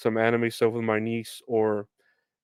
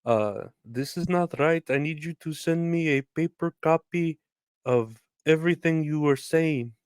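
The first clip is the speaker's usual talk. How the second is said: a lightly raised, insistent customer voice; customer on the phone; 5 semitones higher than usual. Retold or imitated. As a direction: voice the caller as a touch higher and demanding. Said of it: "she's like".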